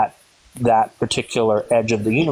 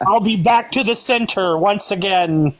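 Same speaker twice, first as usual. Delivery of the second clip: higher-pitched mock action-hero voice; Arnold Schwarzenegger; 6 semitones higher than usual. Extending the joke for the laughing panel, mock Arnold Schwarzenegger voice. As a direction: ham up the famous movie catchphrase. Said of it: "I was thinking Arnold Schwarzenegger".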